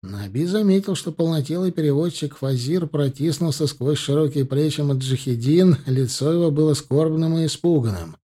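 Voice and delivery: ordinary delivery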